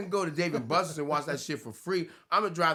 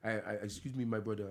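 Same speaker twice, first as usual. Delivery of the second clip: lightly put-on African accent; polite, hesitant mock African English; 3 semitones lower, 4 dB quieter than usual. Shown as a demonstration. Co-host demonstrates his voices, mild African accent. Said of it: "the African voice".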